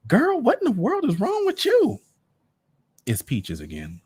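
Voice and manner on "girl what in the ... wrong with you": put-on very high girly friend voice; gossipy friend. Peaches calls her best friend, very high and girly. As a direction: squeal it like a gossipy girlfriend.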